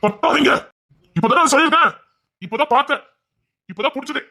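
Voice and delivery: high, loud, desperate plea to stop yelling; high frantic pleading shout. Acted. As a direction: cry out to make him stop. Son pleads with shouting father.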